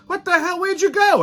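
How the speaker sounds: very high-pitched retold questioning; astonished colleague. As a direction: imitate a baffled guy demanding answers. One of the guys questions him.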